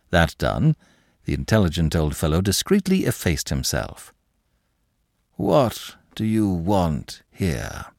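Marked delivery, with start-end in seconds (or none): 5.4-7.9 growled warning. Acted. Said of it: "growled Monsieur de Kercadiou".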